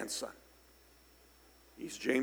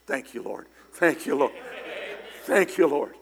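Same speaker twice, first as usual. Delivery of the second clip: from a hushed thank-you to a fuller, louder praise; building thanks; 4 dB louder than usual. Retold or imitated. Grateful prayer after healing.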